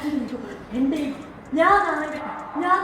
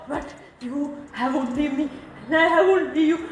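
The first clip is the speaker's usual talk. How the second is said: broken plea; 4 semitones lower, 4 dB quieter than usual. Real, not acted. Daughter pleading, voice dropping.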